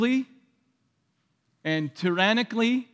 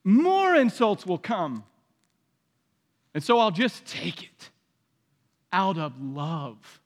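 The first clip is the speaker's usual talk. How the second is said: mild resigned sigh; a touch of defeated acceptance; passive resignation. Retold or imitated. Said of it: "the passive response, which says".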